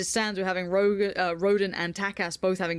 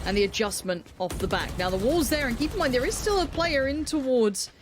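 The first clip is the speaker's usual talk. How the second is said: esports caster; 3 semitones higher than usual. Acted. Live play-by-play of a round.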